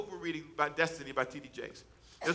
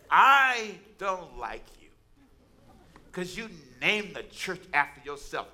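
louder, huffy put-on voice of an offended woman; mock angry lady; 5 dB louder, slower than usual. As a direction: snap it out like a cross churchgoer. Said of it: "She was so mad with me".

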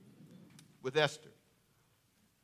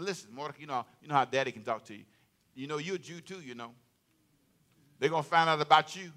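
1 soft daddy talk; 3 semitones lower, 5 dB quieter, faster than usual. Acted. Mordecai as daddy to Esther.

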